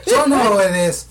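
loud, laughing self-hype; playful boasting shout. Pretend. Co-host hypes himself to the listeners, playful boasting shout.

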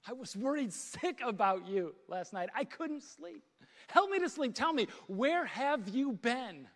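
acted anxious scolding, rising in pitch; worried confrontation. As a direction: demand an answer after a sleepless night. Acted confrontation after sleepless night.

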